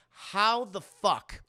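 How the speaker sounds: slow, loud villainous seething; hammed-up loathing, dragging out the words; evil teacher. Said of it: "These teachers are fucking evil".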